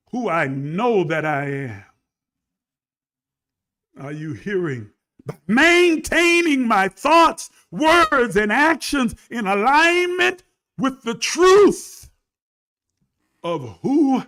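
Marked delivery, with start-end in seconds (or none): 5.2-14.2 loud, higher and slow; full-force preaching. Real, not acted. Preacher building to a loud, high climax for his viewers. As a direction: drive it up with power.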